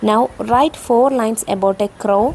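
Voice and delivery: ordinary delivery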